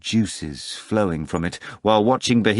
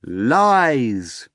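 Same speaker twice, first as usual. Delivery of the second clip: shouted; 5 semitones higher, 5 dB louder than usual. A narrator's reading. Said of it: "they all shouted in unison".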